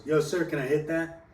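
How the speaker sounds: retold calling out. Second friend asking the same stranger, calling out. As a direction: echo a friend's call to a stranger.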